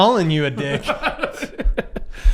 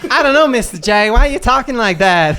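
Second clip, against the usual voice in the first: louder, questioning Harley voice; lightly voiced, confused Harley Quinn; puzzled Harley Quinn; 2 semitones higher, 5 dB louder than usual. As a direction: play Harley, baffled by her boss. Plays Harley Quinn answering Joker.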